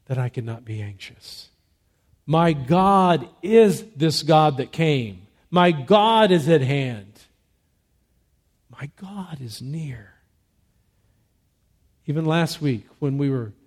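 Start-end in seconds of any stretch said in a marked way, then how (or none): 2.3-7.1 proclaiming. Real, not acted. Pastor proclaiming God's presence. 8.7-10.1 hushed. Real, not acted. Quiet after the proclamation.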